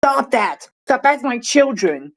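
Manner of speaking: put-on half-hearted yell at unruly children; mild mock yell. Prime minister telling off a childish parliament, mock yell. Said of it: "yell at everyone".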